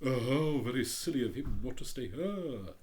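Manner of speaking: hint of a haughty rocket; lightly voiced pompous Rocket. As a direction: read it as a vain firework showing off. The Rocket scoffing.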